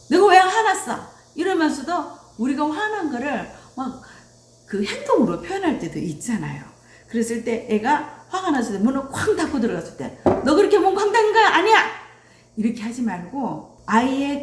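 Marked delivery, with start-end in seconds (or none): 0.1-1.0 higher, louder mock-defensive retort; testy denial. Upset parent denying being angry, testy retort. 10.4-11.8 loud, high, fast mock telling-off; angry scolding. Parent to child who slammed the door, angry scolding.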